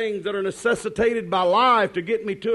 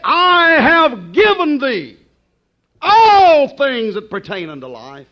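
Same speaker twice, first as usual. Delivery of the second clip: louder, slower scripture call; loud proclaiming; 3 semitones higher, 7 dB louder than usual. Acted. Preacher proclaiming scripture to the congregation, loud. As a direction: proclaim the verse to the back row. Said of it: "I want you to listen to that now".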